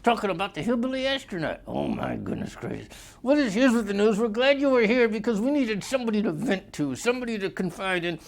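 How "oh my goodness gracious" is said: put-on exclamation.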